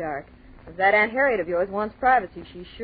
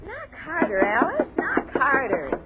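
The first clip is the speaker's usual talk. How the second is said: impatient urging; 5 semitones higher, 4 dB louder, slower than usual. Acted. Impatient at the door.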